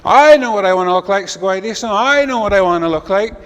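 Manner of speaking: high, loud owl voice; eager owl. Acted. Owl begs the creator for his wish, high and loud. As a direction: owl desperate to be picked.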